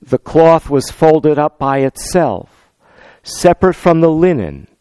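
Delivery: measured, solemn Bible reading; scripture reading. Acted. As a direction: read the Gospel aloud to the congregation.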